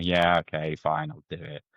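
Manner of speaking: mock reluctant going-along, pitch sinking; half-hearted agreement. Team answering their boss's pitch on screen, half-hearted. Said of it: "it was still quite half-hearted".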